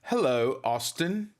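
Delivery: "Hello, Austin" in a light British accent. Shown as a demonstration. Streamer showing viewers a British greeting, light British accent. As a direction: greet Austin like a mock Brit. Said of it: "do it in a British voice".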